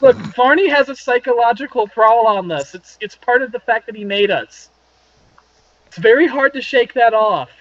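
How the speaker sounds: lifted pitch, earnest and pleading; vampire girlfriend voice. Acted.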